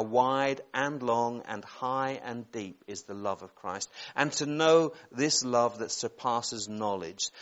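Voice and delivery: slow, reverent Bible reading; scripture reading. Real, not acted. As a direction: read each phrase out with space around it. Reads the verse a second time.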